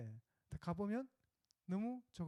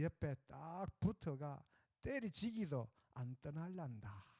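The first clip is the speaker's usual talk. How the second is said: Gyeongsang dialect. Pretend. Pastor reciting Psalm 23 to the congregation in Gyeongsang dialect. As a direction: preach it like a blunt Gyeongsang old-timer. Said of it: "이게 경상도 말로 하면".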